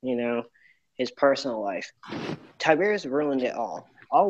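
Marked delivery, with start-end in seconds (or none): 2.6-4.3 talking in an echoey room; garage echo. Real, not acted. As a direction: voice echoing in a garage. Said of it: "I'm sorry if I'm echoing".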